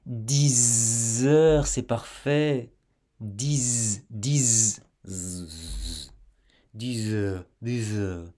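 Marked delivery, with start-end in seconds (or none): 0.1-2.7 "Dix heures" said with the z sound running into "heures"; linking demo. Shown as a demonstration. Teacher to learner, showing the link again. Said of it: "tu entendras cet enchaînement". 6.7-8.3 "dix heures" repeated with the z joined to "heures"; linking drill. Shown as a demonstration. Teacher to learner, repeating for practice. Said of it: "tu entendras cet enchaînement".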